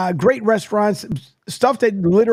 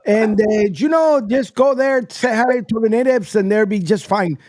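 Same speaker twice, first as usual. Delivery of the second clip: A-Rod impression; 3 semitones higher than usual. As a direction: do your best A-Rod, easygoing advice. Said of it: "my best A-Rod impression".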